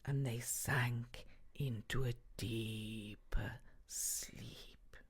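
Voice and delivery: very soft, low and slow; hushed, sleepy. A narrator's reading. Narrator tells children of guards sinking into sleep, hushed and slow. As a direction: let it sink away drowsily.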